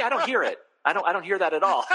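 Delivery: real laughter breaking through the denial; can't keep a straight face while denying; laughing. Real, not acted. Retells his own reply, laughing.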